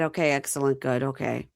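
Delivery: low, soft, hurried brush-off; mock awkward dodging; mumbled dismissal. Host imitating an awkward boyfriend brushing off his girlfriend.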